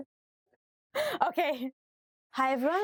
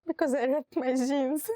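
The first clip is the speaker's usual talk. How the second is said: laughing; 3 semitones higher than usual. Pretend. Fake crying example.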